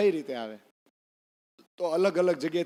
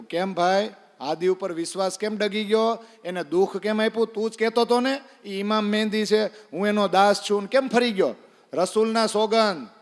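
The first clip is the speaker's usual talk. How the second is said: angry confrontation; 4 semitones higher, 5 dB louder than usual. Retold or imitated. Angry Pathan confronts Ibrahim.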